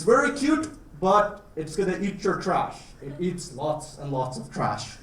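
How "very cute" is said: gushing. Real, not acted. Cooing over cute animal.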